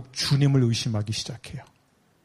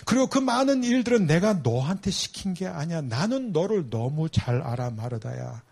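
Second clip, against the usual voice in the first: tender Jesus voice; 3 semitones higher than usual. Acted. Jesus tenderly addressing Martha.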